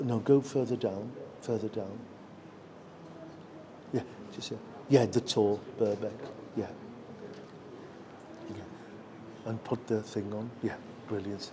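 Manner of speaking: low, soft off-mic instructions; talking aside while setting up a video; quiet aside. Real, not acted. Aside to whoever runs the video.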